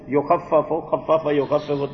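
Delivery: یخفف and خفف said slowly syllable by syllable, doubled f held; slow root drill. Shown as a demonstration. Teacher drilling the verb forms for students, slow and careful. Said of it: "تخفیف، ہلکا کرنا۔".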